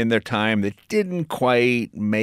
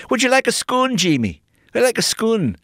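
put-on higher sweet old-aunt voice; aunt offering scone; 11 semitones higher than usual. Aunt offers Jamie a stale scone, higher sweet voice. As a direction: lightly play a doting Scottish aunt. Voicing Scottish aunt in story.

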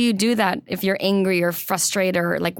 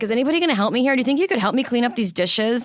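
frustrated nagging; 3 semitones higher, faster than usual. Retold or imitated. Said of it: "be really frustrated".

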